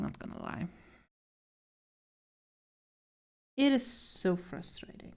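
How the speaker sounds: breathy venting whisper; frustrated whisper. Real, not acted. Frustrated vent, whispered aside.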